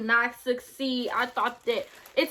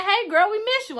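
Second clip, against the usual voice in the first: higher-pitched fond message voice; imitated friendly follower; 8 semitones higher than usual. Follower messaging the creator, imitated high friendly greeting. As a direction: lightly mimic a friend checking in.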